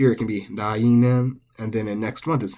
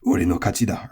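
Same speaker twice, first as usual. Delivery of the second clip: anime boast quote. Retold or imitated. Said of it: "we've heard that a lot if we're weebs".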